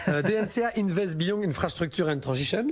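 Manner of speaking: put-on fund name in heavy French-accented English, laughing; hammed-up French accent on the English words. Reading an English fund name to the host in a French accent. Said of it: "vous adorez mon accent anglais".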